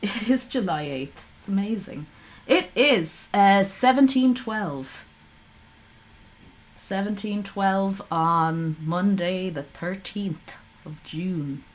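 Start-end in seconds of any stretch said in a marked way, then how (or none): 2.5-11.6 slow, announcer-style time check; newsreader voice. Shown as a demonstration. Streamer reading the date like a newsreader. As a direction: read the time like a news anchor. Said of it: "I sound like a newsreader when I say that".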